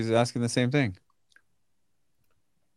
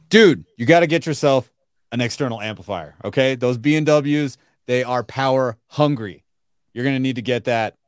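hard-sell pitch. Pretend. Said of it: "is that your sales pitch right there?".

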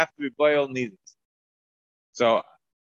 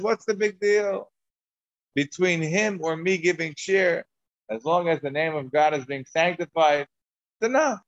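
slow, raised and gently dismissive; humble rabbi shrugging; 3 semitones higher than usual. Retold or imitated. Rabbi Avo calming his upset wife, slow and mild. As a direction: brush it off kindly, unbothered. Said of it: "And he says".

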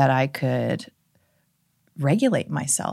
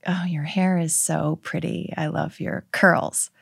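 mock breathy compliment; 2 semitones higher, 4 dB quieter than usual. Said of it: "she's like".

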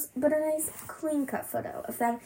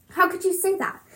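high urgent plea; mother urgently objecting; 8 semitones higher than usual. Acted. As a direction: press her to take it back. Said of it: "Uma says in an urgent voice".

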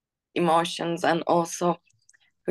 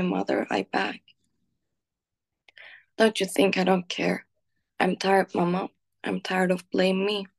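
poem reading. Acted. Reading her own poem about her mother aloud, tender and pained. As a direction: read it like a painful letter to your mother.

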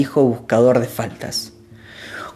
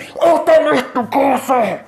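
high, slow hostile cry; savages' demand; 12 semitones higher, slower than usual. A narrator's reading. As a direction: claim the house as theirs.

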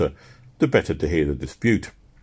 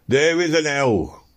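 slow, raised preacher's shout, higher; 7 semitones higher, slower than usual. Acted. Preacher shouting at the sceptical crowd, raised and slow. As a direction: thunder it at the unbelievers. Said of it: "he shouted".

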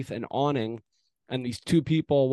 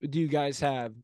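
retold taunt; 5 semitones higher than usual. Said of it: "And he said".

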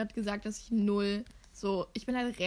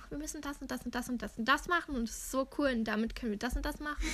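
gushing imitation; faster than usual. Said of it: "sie ist immer richtig so".

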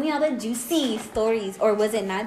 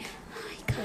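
barely voiced, timid hello; mock a shy girl's hello; shy tiny voice; 4 semitones lower, 15 dB quieter than usual. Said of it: "she wants to be".

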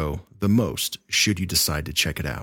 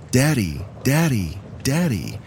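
put-on higher, childlike repeated call; child calling Daddy; 5 semitones higher than usual. Four-year-old calling for his dad, high and childlike. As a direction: call out for Daddy like a little boy.

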